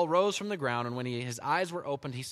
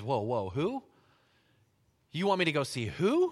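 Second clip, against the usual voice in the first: incredulous Ananias; 5 dB louder than usual. Acted. Ananias shocked at God's request.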